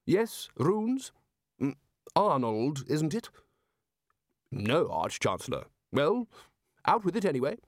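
high, brisk, prodding voice; impatient Arch-Chancellor. Acted. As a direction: hurry the man along. Ridcully prods the lecturer.

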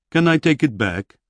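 a big warrior pleading to keep it; barbarian asking. A narrator's reading. Barbarian hero voiced by narrator.

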